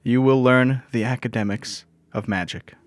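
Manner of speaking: lightly voiced magic instructor; lecturing. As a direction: deliver it as a lecture. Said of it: "she starts lecturing".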